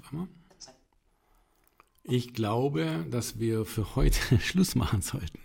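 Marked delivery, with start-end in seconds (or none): 2.0-5.4 whispered laugh. Real, not acted. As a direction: laugh it out under your breath. Wrapping up with a laugh.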